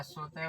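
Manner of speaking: स्वतः ending in an h sound; visarga as h. Shown as a demonstration. Teacher dictating a visarga example, स्वतः closed with ह. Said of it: "इसका उच्चारण ह की तरह होता है".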